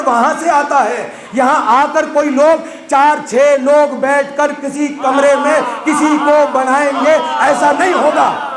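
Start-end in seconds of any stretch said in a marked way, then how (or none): 1.3-8.4 impassioned preaching. Real, not acted. Preacher's rising climax.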